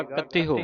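ਕਥਿਓ ending in an audible "ho"; sounded final h. Shown as a demonstration. Teacher demonstrates the haha-aunkar, ਕਥਿਓ ending "ho". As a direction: voice the last syllable of ਕਥਿਓ as ho. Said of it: "ਹਾਏ ਔਂਕੜ ਉਚਾਰਨ ਹੋਵੇਗਾ".

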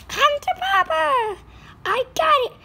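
high, loud gleeful grab; excited. Acted. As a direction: gloat over the prize. Grabbing the ring gleefully.

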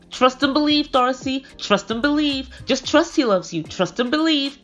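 high, repeated sing-song jibe; mocking taunt. Stacey slagging off crying Darcy, mocking taunt. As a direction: imitate a sister's needling chant.

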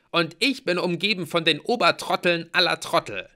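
high, loud, emphatic complaint; exasperated insult. A narrator's reading. Mallory scolds her floormates, loudly exasperated. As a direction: vent loudly at the fools.

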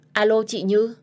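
put-on girl calling her sister on a silent line, loud and rising. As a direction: call out to check if she hears.

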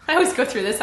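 normal talking voice

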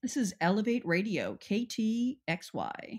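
lightly played station ident, slowing on the letters; mock radio announcer.

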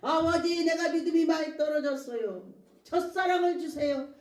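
prayer call, pitched a little high; praying aloud. Shown as a demonstration. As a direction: address God as a pleading child to a father. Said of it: "제가 기도합니다".

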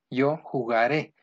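"jugaré" drawn out, accent on final é; stress on last syllable. Shown as a demonstration. Teacher conjugating the future in Spanish, final é stressed in "jugaré". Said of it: "lleva acento en la última".

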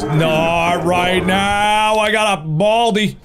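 high, drawn-out frantic plea; frantic protest. Real, not acted. Player chased by Baldi begs off an interruption, frantic. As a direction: wail it in mounting panic, pitch climbing.

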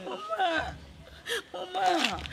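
tearful wail for mama; crying. Acted. Heartbroken girl crying out to her mother, sobbing. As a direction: sob the word out, heartbroken.

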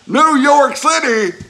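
high, loud, drawn-out exclamation; amazed the oysters come from New York; mock astonishment. Real, not acted. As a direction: belt it out in amazement.

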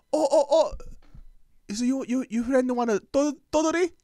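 high, loud, halting mom voice; imitated mom. Mom offering son's friend a snack, imitated high voice. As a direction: imitate an eager mother stumbling for words.

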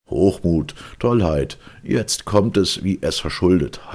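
father and crowd jeering at the stalled ship. A narrator's reading. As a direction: hurl it like a scornful mob. Jeering crowd mocks the inventor.

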